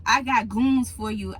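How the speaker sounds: a hint of a low street threat; a retold threat, barely acted; lightly voiced tough guy. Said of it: "he was like".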